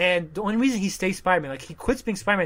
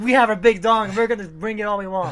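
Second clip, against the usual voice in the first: raised, higher voice with laughter; mock defiant boast; 5 semitones higher, 5 dB louder than usual. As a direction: boast loudly, barely holding back laughter. Defiant reply in acted standoff.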